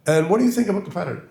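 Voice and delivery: put-on high, swallowed English accent; Berlin imitation. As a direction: mimic a mumbling Oxford don. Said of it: "I'll try to".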